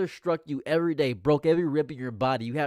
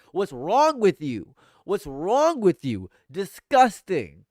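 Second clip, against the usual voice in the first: slow, louder, drawn-out disgust; hammed-up outrage at bad taste; mock outraged rant; 3 semitones higher, 6 dB louder, slower than usual. Streamer scolding apple ice cream fans, slow mock outrage.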